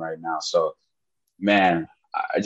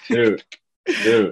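high, loud delighted dude; a gleeful yelp of agreement; excited; 12 semitones higher, 4 dB louder than usual. Real, not acted. Co-host cheering his friend's joke, excitedly shouting dude.

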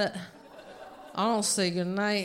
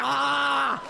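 open-mouthed "ah" while pretend-chugging; hammed-up held yell; 4 semitones higher, 4 dB louder than usual. Comedian chugging a bottle, yelling "ah". Imitates himself chugging the drink.

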